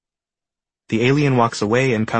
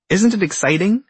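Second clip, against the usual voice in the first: high, loud excited squeal; excited shout; 10 semitones higher, 4 dB louder than usual. Acted. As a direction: burst out with excitement. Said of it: "shouts the egg".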